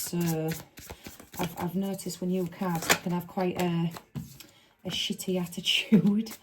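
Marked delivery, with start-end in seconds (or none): 4.9-6.3 laughing whisper. Real, not acted.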